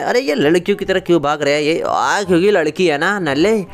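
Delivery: mock him like a show-off friend; taunting gamer bro. Swaggering buddy teasing his brother, cocky.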